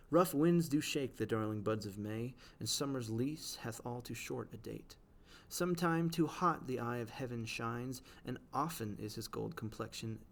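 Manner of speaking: slow, measured sonnet reading; poem recital. Acted. Teacher reading Shakespeare to the class, slow poetic recital. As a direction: read it like verse, unhurried.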